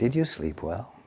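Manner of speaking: soft, hushed, lightly rising. Rolling over in bed in the morning, someone asks their spouse a question in a soft voice. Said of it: "in a soft voice you say".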